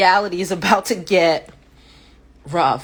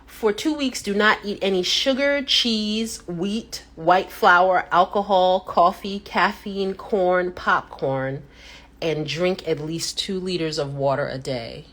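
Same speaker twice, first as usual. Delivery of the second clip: list read again. Shown as a demonstration. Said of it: "One more time".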